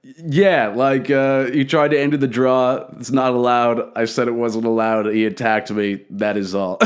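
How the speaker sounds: matter-of-fact, winding down in pitch and volume; understated statement. Retold or imitated. Accused man briefly answering before the gathered performers, understated.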